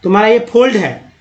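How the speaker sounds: imitated slip, फोल्ड with long O and D; mistaken "fold". Teacher quoting people who mispronounce, फोल्ड with O and D. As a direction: quote the error, saying फोल्ड for "fault". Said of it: "फॉल्ट को फोल्ड बोल देते हैं".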